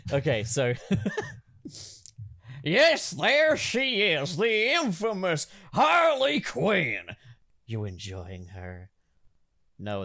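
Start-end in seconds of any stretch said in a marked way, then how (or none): 2.6-7.0 high, loud, slow announcer call; showman announcement. Acted. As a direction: present her like a ringmaster.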